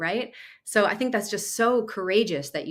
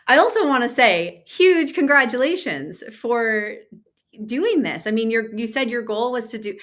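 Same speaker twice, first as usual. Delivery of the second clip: excited gush, pitched up, rushing at the end; a little too excited; 4 semitones higher, 4 dB louder than usual. Real, not acted. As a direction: congratulate with mounting enthusiasm, louder and higher at first. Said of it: "I'm getting a little too excited".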